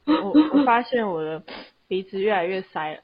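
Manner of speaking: stuffy nose, breathing loudly; blocked nose. Real, not acted. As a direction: talk through a blocked nose. (鼻塞，呼吸声很重)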